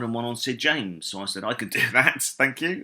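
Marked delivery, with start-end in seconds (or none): 1.4-2.8 high, loud, laughing quote of himself; eager acceptance. Retold or imitated. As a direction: jump at the offer, voice lifting on the thanks.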